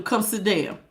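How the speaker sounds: a soft, earnest plea. Real, not acted. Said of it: "but I'm telling you".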